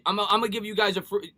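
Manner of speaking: ordinary talk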